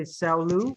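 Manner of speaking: "cellu" with the weight on LU; misplaced second-syllable stress. Retold or imitated. Teacher echoing student's mistake, stress on second syllable of "cellu". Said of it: "emphasis on the second".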